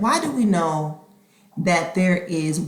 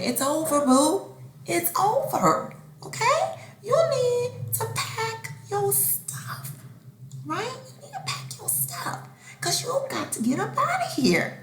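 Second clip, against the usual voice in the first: mock stern send-off; 13 semitones higher than usual. Telling her child to pack up and leave, mock stern.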